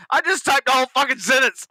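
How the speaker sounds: high-pitched, laughing mock outrage; laughing exasperation. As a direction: squeal the complaint through laughter. Laughing rant about the keyboard.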